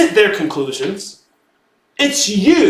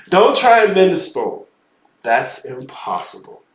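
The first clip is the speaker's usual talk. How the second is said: put-on English accent; 3 semitones lower than usual. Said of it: "English accent from Harry Potter".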